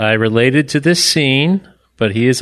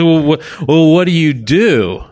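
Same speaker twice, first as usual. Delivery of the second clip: high, louder mock wife voice; a mocking high imitation of his wife; imitating wife; 6 semitones higher, 4 dB louder than usual. Husband mimicking his wife asking what he'd do.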